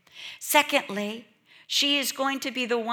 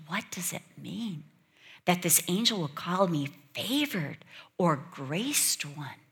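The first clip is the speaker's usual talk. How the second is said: hushed pondering. Retold or imitated. Mary pondering the angel's greeting, hushed and wondering. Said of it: "No, this is pondering".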